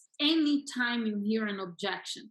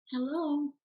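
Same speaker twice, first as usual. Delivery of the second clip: higher, unhurried phone greeting; relaxed phone hello; 4 semitones higher than usual. Acted. Coach mimicking how sellers don't answer, relaxed hello. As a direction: answer the phone pleasantly, no edge at all. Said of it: "They're not like that".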